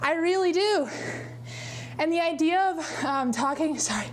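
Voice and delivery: a little out of breath on the elliptical; winded. Real, not acted. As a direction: talk while working out. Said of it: "I'm getting winded now".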